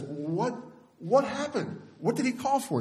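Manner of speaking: very high, urgent mock questioning; alarmed husband. Husband asking crying wife why Johnny called, mock alarmed. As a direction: imitate frantic questioning, voice shooting up.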